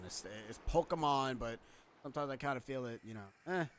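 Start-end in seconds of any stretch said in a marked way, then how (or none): 0.5-1.4 "Pokemon" said POH-kuh-mon, uh in the middle; correct pronunciation. Shown as a demonstration. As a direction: stress the first syllable of "Pokemon", reduce the second to uh. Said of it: "I always found the pronunciation of that to be".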